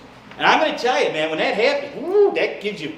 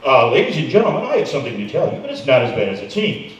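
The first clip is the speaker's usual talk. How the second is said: lightly voiced airline pilot on the intercom; mock pilot calmly breaking bad news; pilot announcement; 6 semitones lower than usual. Comedian mocking doctor as a pilot, calm intercom announcement. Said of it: "Don't ever be a pilot".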